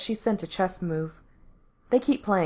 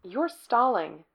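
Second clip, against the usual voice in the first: dry; 3 semitones higher, slower than usual. Acted. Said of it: "Becky says dryly".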